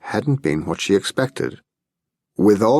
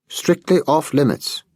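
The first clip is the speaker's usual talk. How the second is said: savoring the phrase; 8 semitones higher than usual. A narrator's reading. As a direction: relish every word of "Strictly off limits". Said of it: "he repeated, savoring the phrase".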